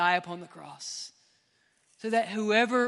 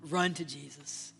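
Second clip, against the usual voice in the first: quiet urging; 5 semitones lower, 6 dB quieter than usual. Acted. Quiet contrast to loud take.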